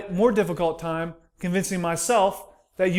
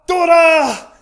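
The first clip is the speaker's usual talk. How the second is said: loud, high hawker's call from outside; street vendor yell; 8 semitones higher, 6 dB louder, much slower than usual. Retold or imitated. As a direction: belt it like a corn seller in the street. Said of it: "we hear outside the window".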